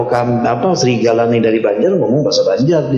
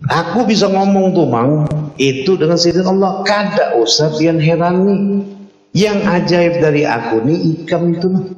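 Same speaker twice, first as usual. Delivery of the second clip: lightly voiced wolf; 5 semitones higher than usual. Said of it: "serigalanya menjawab".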